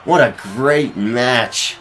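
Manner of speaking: high, loud finishing call; excited commentator. Acted. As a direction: scream the three count to the crowd. Finish and three count.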